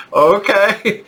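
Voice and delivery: nervous okay. Retold or imitated. Box office worker told to drive the movie star, nervous high okay. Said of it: "And I was like".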